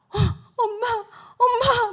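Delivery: imitating a son's high, crying cry for mum; mock-sobbing boy on the phone; tearful calling. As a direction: call "mum" high and loud, choked up. Son phones, overwhelmed, crying.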